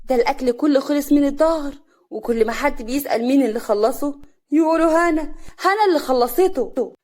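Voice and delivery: loud, high, indignant quarrel; angry. A narrator's reading. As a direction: hit back furiously at your rival. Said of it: "كريمة بغضب".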